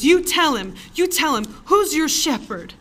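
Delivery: mother prompting her son in front of the manager; fervent demand. Retold or imitated. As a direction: urge the child to testify, zealous. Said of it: "she goes".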